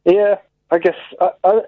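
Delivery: hesitant, mildly let down; a touch of disappointment; disappointed. Real, not acted. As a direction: answer reluctantly, unconvinced. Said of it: "why do you sound disappointed with that answer".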